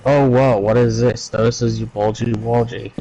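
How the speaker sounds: flat, deadpan reading; monotone. Retold or imitated. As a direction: say it with zero emotion. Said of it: "In a monotone voice".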